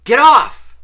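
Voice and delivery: sudden high, loud protest; said loudly. A narrator's reading. Startled boy to someone sponging his forehead, loud high cry. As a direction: yelp it out to push someone away. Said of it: "he said loudly".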